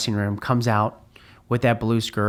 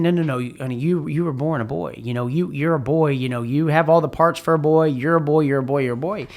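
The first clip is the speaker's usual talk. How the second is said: higher, louder, insisting over and over; insisting firmly; 4 semitones higher, 3 dB louder than usual. Retold or imitated. Parents telling their child firmly, insistent higher voice. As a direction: drill it in like a worn-out parent.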